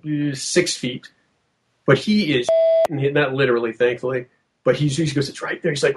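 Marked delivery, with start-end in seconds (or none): 5.3-5.7 hushed imitation of a whisper; under-the-breath quote, half whispered; retold whisper. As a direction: softly mimic someone whispering. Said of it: "He's whispering".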